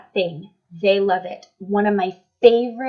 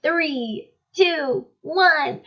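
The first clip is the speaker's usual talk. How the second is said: excited; 6 semitones higher, much slower than usual. Shown as a demonstration. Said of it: "freak out and be crazy".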